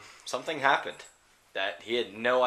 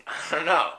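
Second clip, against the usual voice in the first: laughing; 6 semitones higher, slower than usual. Acted. Lady answers, laughing.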